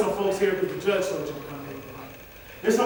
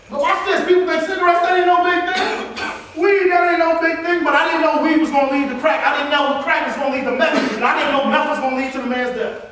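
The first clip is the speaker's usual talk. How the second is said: preacher warning the students, voice raised; rising preaching; 5 semitones higher than usual. Real, not acted. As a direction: drive the chain home, voice climbing. Preaching climax on drugs.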